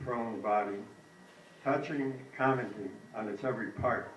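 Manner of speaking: measured poem recital in short phrases; poetry reading. A narrator's reading. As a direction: read a poem aloud, pausing after each line. Reads own poem aloud.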